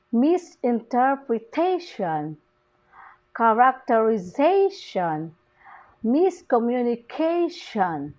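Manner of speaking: "misinterpretation, characterization, miscommunication" with the weight on "-ta-", "-za-", "-ca-"; stress on fifth syllable. Shown as a demonstration. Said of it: "the primary stress falls on the fifth syllable".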